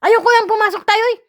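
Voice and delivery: put-on a kid begging to go home; whiny child. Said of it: "Sabi ko sa tatay ko po". (batang nagmamakaawa sa tatay, pasigaw at mataas ang boses)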